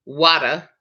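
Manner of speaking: "Water" said wah-tuh; saying water. Shown as a demonstration. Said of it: "Am I saying it right".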